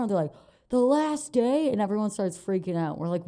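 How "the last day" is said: shocked locals. Retold or imitated. Locals shocked at their choice.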